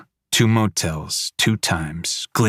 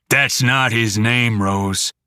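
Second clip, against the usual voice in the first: slow menace; 3 semitones higher, slower than usual. Acted. Dad menacing.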